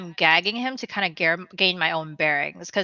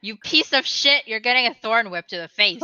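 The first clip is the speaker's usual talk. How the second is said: irritable, raised voice at a noisy prisoner; a touch of hungover fury; hungover rage; 4 semitones higher, 3 dB louder than usual. Acted. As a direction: snap at him like a grumpy hungover ranger. Hungover character threatens dwarf.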